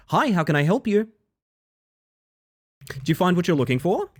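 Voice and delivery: high, bright shop assistant voice; customer service voice. Pretend. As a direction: greet like a helpful shop clerk. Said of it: "my customer service voice".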